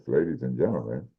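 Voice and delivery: big arena announcer intro. Acted. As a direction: call it out to the crowd. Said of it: "my announcer voice".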